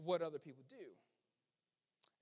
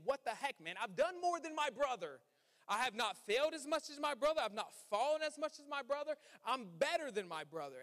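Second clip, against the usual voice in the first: raised, higher indignant protest; indignant complaint; 4 semitones higher than usual. Retold or imitated. Older brother protests to his father, indignantly raised. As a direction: whine about being the better son. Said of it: "He's saying".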